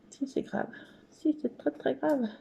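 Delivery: hushed mock-serious contradiction; whispered self-reply. Contradicting her own reassurance in a whisper. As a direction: whisper it back like a guilty aside.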